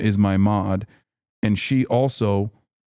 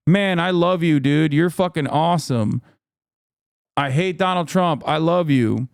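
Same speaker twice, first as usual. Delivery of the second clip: lightly mimicked gushing fan, pitched up; adoring fan; 4 semitones higher than usual. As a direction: imitate a devoted fan's praise. Acts out the formerly adoring fan.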